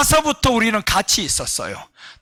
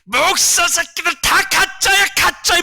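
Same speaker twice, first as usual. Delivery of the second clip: slow, high, sneering demon taunt; 8 semitones higher, slower than usual. Retold or imitated. Pastor voicing the demon taunting pastors as fakes, slow high sneer. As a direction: let the spirit mock the pastors, slow and high. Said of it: "가서 하는 말이 그런 거예요".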